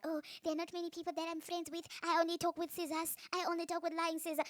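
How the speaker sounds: high-pitched mocking imitation; put-on character voice. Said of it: "which character this is".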